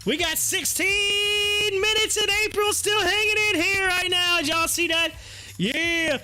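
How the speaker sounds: excited shout. Real, not acted. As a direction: call it out with excitement. Excited hype over stock.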